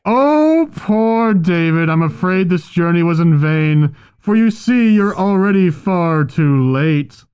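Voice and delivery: muffled voice behind a helmet mask; inside a helmet. Acted. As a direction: speak as if through a helmet. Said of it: "making it sound like he's wearing the helmet".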